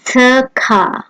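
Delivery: circa starting with ts, tseer-ka; German circa, tseer-ka; German pronunciation. Shown as a demonstration. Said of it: "as in the words".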